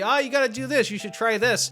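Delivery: hollering advice at a bad team, half-acted; mock yelling at the TV. Fan Mark yelling at the TV, mock yell. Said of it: "Mark is screaming at the T V".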